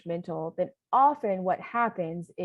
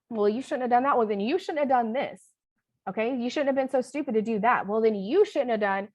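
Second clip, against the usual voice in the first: louder, higher tit-for-tat scolding; scolding parent voice; 4 semitones higher, 4 dB louder than usual. Shown as a demonstration. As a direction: lecture back like a stern parent. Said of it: "respond to parent with a parent".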